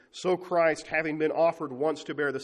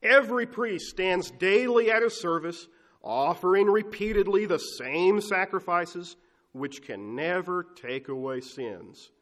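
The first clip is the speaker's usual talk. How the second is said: slow, loud, high scripture reading, each word weighed; emphatic reading; 4 semitones higher, 6 dB louder, slower than usual. Acted. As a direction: read it out like a verdict. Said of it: "hear him say it emphatically".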